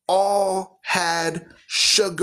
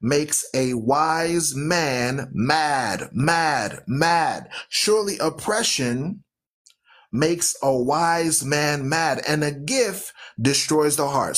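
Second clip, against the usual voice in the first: slow, emphatic scripture reading with repeats; scripture read as a sermon with mounting emphasis; preaching scripture; slower than usual. Acted. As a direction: preach each phrase slowly and press it home.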